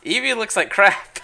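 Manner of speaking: high, loud cry of dismay; appalled outburst. Real, not acted. Streamer telling viewers the new renderer failed, appalled.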